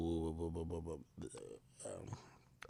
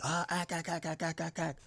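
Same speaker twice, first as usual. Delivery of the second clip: imitated ack calls; 3 semitones higher, 15 dB quieter than usual. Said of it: "Everybody's like".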